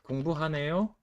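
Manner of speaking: 공부하네요 lifted with light surprise, rising at the end; 공부하네요 with a small rising note of surprise; mildly surprised 공부하네요. Shown as a demonstration. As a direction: say 공부하네요 as if you didn't expect it. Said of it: "if you say like that".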